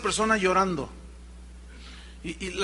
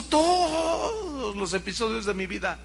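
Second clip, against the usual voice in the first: tearful testimony; 4 dB quieter, slower than usual. Retold or imitated. Woman telling pastor God showed her life, crying.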